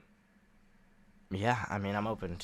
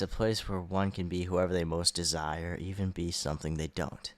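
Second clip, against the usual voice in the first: grand announcer voice selling a city; dramatic promo read. Acted. Host reading the Sinister District intro aloud, trailer style. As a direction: pitch it like a movie trailer.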